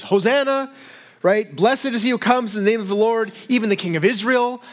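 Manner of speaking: high, lifted hail of a cheering crowd; crowd cry. Retold or imitated. Preacher voicing the crowd greeting Jesus, joyful cry. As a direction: call it out like the welcoming crowd. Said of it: "crying out".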